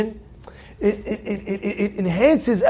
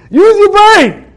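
loud, much higher, slow cry; exhortation; 10 semitones higher, 8 dB louder, much slower than usual. Real, not acted. Preacher shouting at the congregation to use their brains. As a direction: drive it home to the crowd. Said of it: "exhorting congregation".

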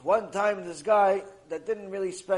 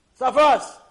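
loud dismissal; 6 semitones higher, 10 dB louder than usual. Acted. Friends brush him off.

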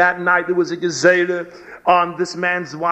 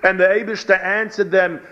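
ordinary talk, nothing marked

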